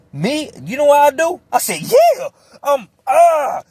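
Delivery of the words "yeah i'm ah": eager. Retold or imitated. Eager to fight, mock excited.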